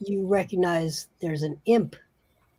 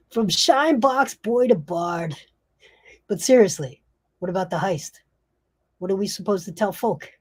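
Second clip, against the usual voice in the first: joshing gangster; 3 semitones higher, 4 dB louder than usual. Acted. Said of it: "the other one says".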